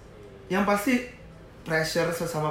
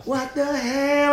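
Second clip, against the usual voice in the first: high, long drawn-out disbelief; acted disbelief; 12 semitones higher, much slower than usual. Retelling shock at a rival boss's challenge, drawn-out disbelief. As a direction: stretch it out high, incredulous. Retells reaction to being threatened.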